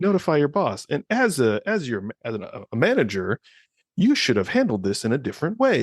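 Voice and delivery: lightly voiced instructor with lifted singsong; mock presenter's correction; training-video lady presenter. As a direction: lecture like an e-learning host. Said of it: "then this lady pops up in the middle".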